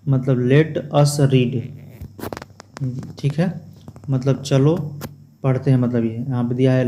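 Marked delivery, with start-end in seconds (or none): 0.5-1.6 slow reading aloud. Shown as a demonstration. Teacher reads textbook phrase to class, slow and deliberate. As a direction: let us read, slowly. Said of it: "reading English slowly".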